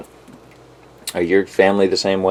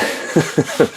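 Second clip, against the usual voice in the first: breaking up laughing mid-sentence; helpless little burst of laughter; 8 semitones higher than usual. Real, not acted. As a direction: crack up at your own rambling. Cracks up at own rant.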